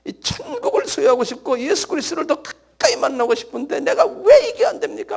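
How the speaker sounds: pleading lament, rising to a high cry; acted tearful plea climbing in pitch; anguished prayer. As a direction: cry out in frustrated longing to God. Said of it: "하고 막 아쉬워하고".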